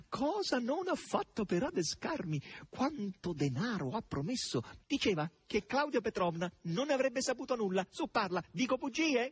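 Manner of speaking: high, gleeful taunting; teasing shouts. A narrator's reading. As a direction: crow the questions up high, stretching them. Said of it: "gridò Natascia al verro".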